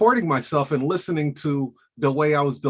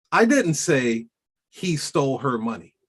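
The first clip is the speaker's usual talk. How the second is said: I didn't say he stole her money, stress on didnt; "didnt" pe zor deke bolo; example sentence. Shown as a demonstration. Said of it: "Voice and voice infliction".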